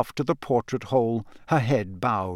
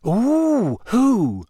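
high, stretched, nosy delight; Parvati, keen; 10 semitones higher, 3 dB louder than usual. A narrator's reading. Parvati hungry for gossip, keenly. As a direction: swoop up with eager curiosity. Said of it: "she said keenly".

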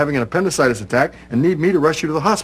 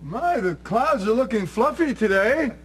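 slow, higher, pointed hint; pointed signal line; 4 semitones higher than usual. Pretend. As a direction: drop the code phrase slowly and pointedly. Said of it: "I, I said".

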